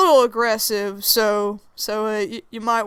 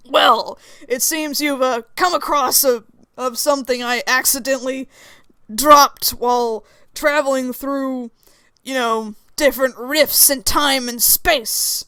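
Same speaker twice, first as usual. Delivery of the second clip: composed Lucifer; 3 dB louder than usual. Acted. Plays Lucifer explaining himself.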